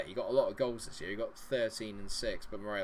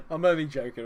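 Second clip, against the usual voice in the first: higher and louder, playfully insistent; loud teasing protest; 4 semitones higher, 7 dB louder than usual. Real, not acted. Teasing a viewer, then softening.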